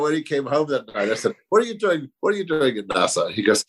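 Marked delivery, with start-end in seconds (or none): 1.5-3.3 higher-pitched retold questioning, falling away; mildly incredulous, starting high; incredulous parent's question. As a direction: quote yourself quizzing your son. Parent quizzing son in story.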